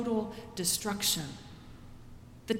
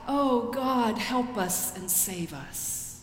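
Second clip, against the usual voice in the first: crying out to God; much slower than usual. Acted. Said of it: "want to cry out".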